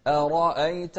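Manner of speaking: أرأيت with a thin hamza; أرأيت with the hamza kept light; أرأيت with a thin glottal stop. Shown as a demonstration. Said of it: "والهمزة مرققة".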